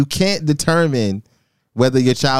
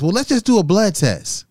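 nurse voice; 9 semitones higher than usual. Retold or imitated.

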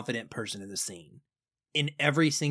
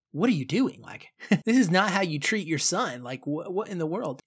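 imitating furious mom; 5 semitones higher than usual. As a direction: scold him like an outraged mother. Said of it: "Amy is, like, furious".

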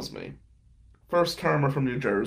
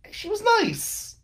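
higher, slow sarcastic drawl; slower than usual. Acted. Narrator mocks his cheating ex, slow sarcastic tone. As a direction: say it like you don't buy it. Ironic remark on ex.

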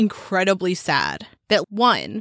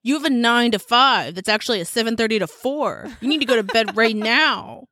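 scolding herself; 2 semitones higher than usual. Retold or imitated. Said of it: "in the mirror with mouthwash in my mouth going".

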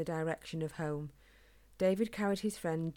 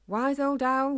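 put-on loud, higher call stretching old; shouting; 7 semitones higher, 7 dB louder, slower than usual. A narrator's reading. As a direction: shout up into the trees for the owl. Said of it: "he shouted".

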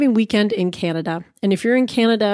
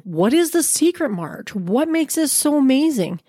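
eager listener; 7 semitones higher than usual. Pretend. Imagined listener asks eagerly.

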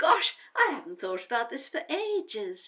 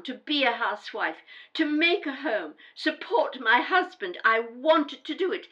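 firm, defiant; 3 dB louder than usual. Acted. Daughter defends her choices firmly.

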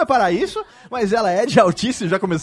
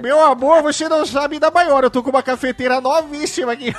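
excited gossip; 8 semitones higher, 4 dB louder than usual. Acted. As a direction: gossip blurted high and loud. Fofoca, segredo. (fofoca animada, aguda e alta)

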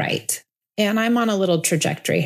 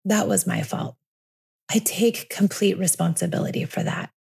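calm, steady owning of fault; sincere, remorseful apology. Shown as a demonstration. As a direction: take the blame gently and evenly. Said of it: "That feels better to me. That feels like remorse".

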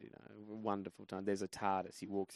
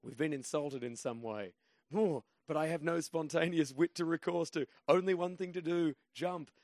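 inner voice deciding; 7 semitones higher, 4 dB louder than usual. Retold or imitated. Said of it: "my brain was still going".

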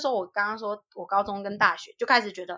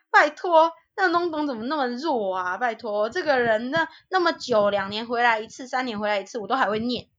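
put-on proud child. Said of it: "我小时候还很骄傲".

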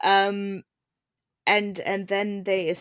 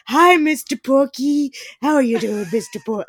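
sweet greeting to a pig; 5 semitones higher, 8 dB louder than usual. Retold or imitated. Edmund greeting a pig in a barn, high and delighted.

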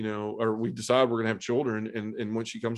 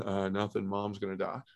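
much softer, deadened answer; numb reply; 6 dB quieter than usual. Retold or imitated. Son telling his sister their mother will die, quiet and numb. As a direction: let it fall out numb and quiet. Flat reply breaking bad news.

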